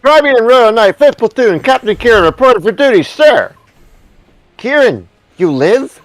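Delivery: heroic knight voice. Acted. Voices knight and general dialogue.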